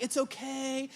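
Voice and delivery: soft, gentle reassurance; tender and hushed; soothing parent. Retold or imitated. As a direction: comfort a small child softly. Comforting his crying son.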